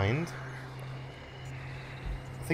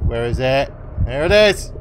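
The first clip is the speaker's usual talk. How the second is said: excited; 6 dB louder, slower than usual. Real, not acted. Found the dagger.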